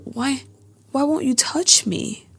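high, breathy mock plea; imitated plaintive delivery. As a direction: imitate her whispery, melodramatic begging. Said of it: "I like the way she delivers these lines".

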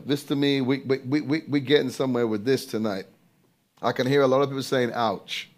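dropped low and soft, quick aside; quiet aside. Real, not acted. Preacher's low aside to the congregation, soft and quick. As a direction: lean in and murmur it.

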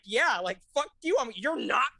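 indignant retort climbing high; accusatory. Retold or imitated. Guest acting out a comeback to a roommate during the film, accusatory.

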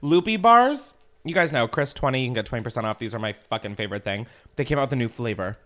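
talking through a mouthful; eating while chatting; chewing while talking. Real, not acted. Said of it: "I am eating".

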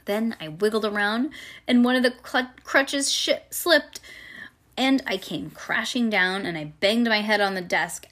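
put-on animated, childlike first-person storytelling; reading to children. A narrator's reading. Reading a chapter book to a child, animated storytelling. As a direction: read it aloud like a little girl telling her tale.

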